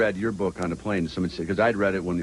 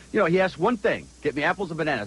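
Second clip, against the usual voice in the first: mock wife; 7 semitones higher than usual. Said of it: "She says".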